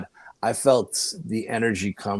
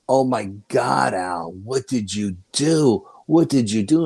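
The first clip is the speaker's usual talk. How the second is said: retold astonishment; 3 semitones higher than usual. Psychic's alarmed reaction retold.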